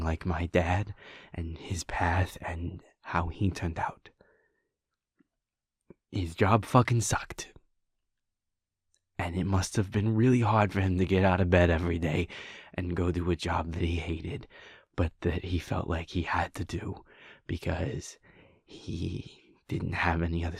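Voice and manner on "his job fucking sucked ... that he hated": louder, fast, bitter rant about the father; bitter outburst. Acted. Venting about her father's hated job, bitter and loud. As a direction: let the resentment spill out, rushing.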